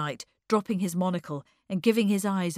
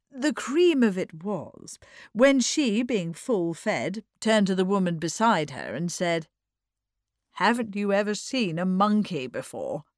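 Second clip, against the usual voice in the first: lightly theatrical, building to the punchline; lightly voiced society raconteuse; 4 dB louder than usual. Mrs. Norman Knight reaching the punchline of her story, with relish. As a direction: relish the anecdote, punching key words.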